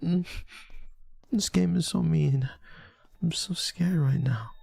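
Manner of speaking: high, moany mock fright; unconvincing high-pitched scared act; pretend scared. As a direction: fake fear in a high, small voice. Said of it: "That's how you sound when you're scared?".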